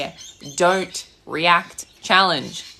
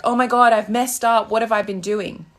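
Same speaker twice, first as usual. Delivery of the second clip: a hint of panicky worry; half-hearted fretting over a mess; mock anxious panic; 3 semitones higher than usual. To viewers, imitating someone panicking after a fight, mock anxious. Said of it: "your anxious feelings like".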